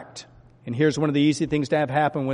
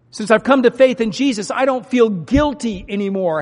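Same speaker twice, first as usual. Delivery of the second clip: eager testimony; 7 semitones higher, 5 dB louder than usual. Shown as a demonstration. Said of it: "How many people are there that want to be freed from guilt?".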